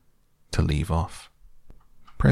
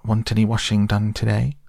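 higher, polite washerwoman's offer; very respectful; 4 semitones higher, 3 dB louder than usual. Retold or imitated. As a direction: offer your services with put-on politeness. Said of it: "very respectfully".

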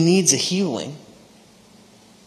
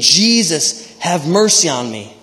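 half-raised plea, crying out; mild mock scream; 3 semitones higher, 4 dB louder than usual. Preacher voices the blind man's plea to Jesus, mildly crying out. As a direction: call it out, stopping short of a scream. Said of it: "He's screaming".

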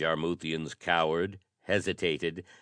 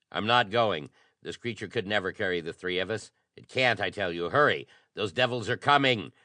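urgent plea; 3 semitones higher, faster than usual. Acted. Urging friend to flee.

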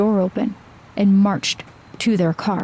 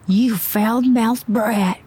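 slow, drawn-out offended rebuke; indignant scolding; much slower than usual. A narrator's reading. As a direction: scold slowly in a put-on voice. Gasping man scolds the driver.

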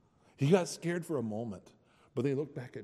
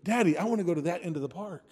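put-on child's voice; 6 semitones higher, 6 dB louder, faster than usual. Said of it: "he goes".

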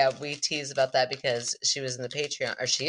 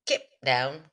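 British accent. Shown as a demonstration. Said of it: "Nailed it".

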